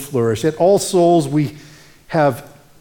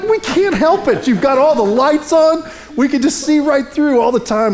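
higher and louder, lightly voiced neighbors; voicing the neighbors; 11 semitones higher, 3 dB louder than usual. Neighbors teasing the pastor about his bare windows, higher and louder. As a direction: play the neighbors teasing him, pitched up.

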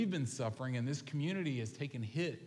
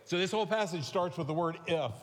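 rushed preaching; 3 semitones higher, 3 dB louder than usual. Real, not acted. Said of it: "preach this entire sermon in sixty seconds".

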